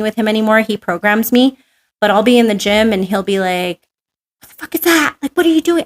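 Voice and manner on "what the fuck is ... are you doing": high-pitched mock disbelief; incredulous scolding. Trainer catching her mistake in the gym, incredulous. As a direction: act out a coach baffled by bad form.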